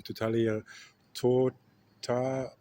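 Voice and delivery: "Totalitarian" cut short, then restarted as "tota-"; struggling with the word. Real, not acted. Vlogger retrying a hard word, halting "Totalitarian, tota-". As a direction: break off "tota-" while hunting for the syllables. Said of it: "I still cannot say this word".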